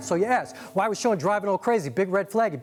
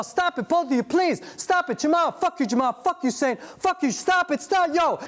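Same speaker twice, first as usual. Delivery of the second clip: pleading scream; 7 semitones higher, slower than usual. Acted. Woman begging fight to stop.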